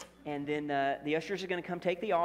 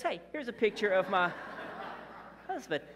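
proud wife, laughing mid-sentence; a wife giggling as she shows her husband's picture. Retold or imitated. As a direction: show off the photo and break into a laugh. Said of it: "And she goes".

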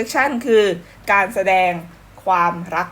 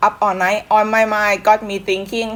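slow lyric read; much slower than usual. Shown as a demonstration. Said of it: "เรามาดูเนื้อเพลงท่อนแรกกัน".

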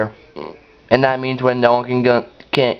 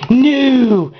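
shocked no; 11 semitones higher, 4 dB louder than usual. Real, not acted. Dismay at missing TNT.

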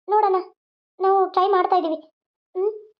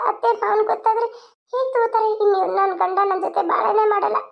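despairing lament; 4 semitones higher than usual. Acted. Woman laments alone in jail.

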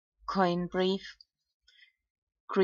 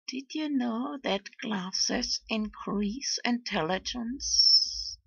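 mocking; 5 semitones higher, slower than usual. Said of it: "make fun of Bitcoiners".

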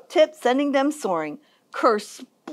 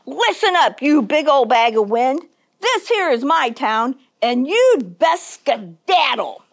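raised-voice storybook challenge; defiant; 4 dB louder than usual. Acted. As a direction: tell off the storm and claim your town. Holler confronts the twister.

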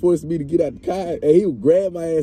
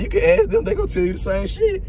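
high protest; 13 semitones higher than usual. Retold or imitated. Protesting to the cop.

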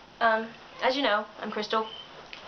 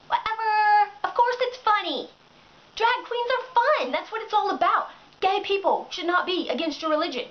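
indignant retort; 6 semitones higher than usual. Real, not acted. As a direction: brush the critic off with a burst. Retorting to the critic.

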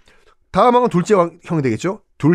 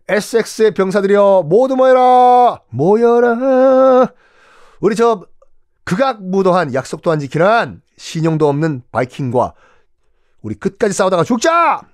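roaring rallying speech; 5 semitones higher, 4 dB louder than usual. Acted. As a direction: rouse the soldiers, full voice. 왕이 병사들을 불러 모음. (우렁찬 출정 연설)

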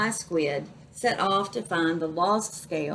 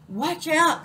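higher, louder sudden warning; calling out a warning; 8 semitones higher, 4 dB louder than usual. Acted. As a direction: shout it to stop him in time. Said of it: "called the squid".

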